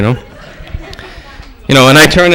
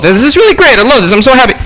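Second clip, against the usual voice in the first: higher-pitched fake happiness; sarcastic delight; 5 semitones higher than usual. Fundraiser sent to closed factories, sarcastically thrilled. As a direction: gush with mock joy you don't mean.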